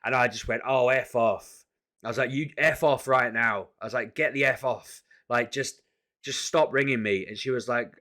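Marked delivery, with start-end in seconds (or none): 0.6-1.6 slow, loud angry snap; telling her to F off. Retold or imitated. Furious at the debt caller on the phone, slow and loud. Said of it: "I went so ballistic at the woman". 2.3-3.7 slow, loud angry snap; telling her to F off. Retold or imitated. Furious at the debt caller on the phone, slow and loud. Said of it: "I went so ballistic at the woman". 4.1-7.2 ballistic. Retold or imitated. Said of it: "I went so ballistic at the woman".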